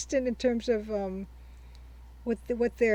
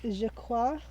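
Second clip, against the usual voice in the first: attempted French. Shown as a demonstration. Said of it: "I have no French accent".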